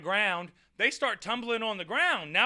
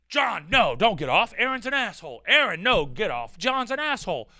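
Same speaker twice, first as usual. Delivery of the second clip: mock pleading; 6 dB louder than usual. Mock pleas to both friends.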